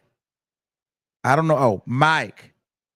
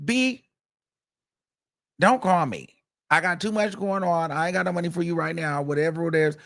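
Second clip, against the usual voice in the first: higher, dismissive voice; mock brush-off; 5 semitones higher than usual. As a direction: wave her off, too busy. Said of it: "And he's like".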